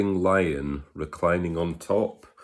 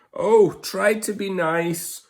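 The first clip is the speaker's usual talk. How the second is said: frightened whimper; 13 semitones higher, 5 dB louder than usual. Acted. Lion pleading with the mouse, high frightened whimper. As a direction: beg in a high scared squeak. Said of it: "he whimpered".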